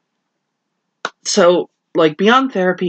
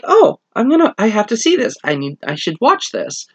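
eager excitement; 5 semitones higher than usual. Retold or imitated. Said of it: "and so I'm like".

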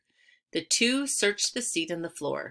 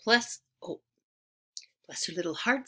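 admiring grandmother; 3 dB quieter than usual. A narrator's reading. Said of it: "said her grandmother, admiring".

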